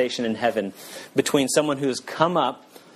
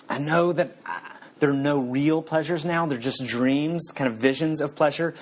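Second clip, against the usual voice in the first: pleading ghost; 3 semitones higher than usual. Acted.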